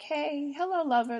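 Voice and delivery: high, cooing playful hello; mock flirty greeting. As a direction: coo it like greeting a lover. Acts out greeting it like a lover.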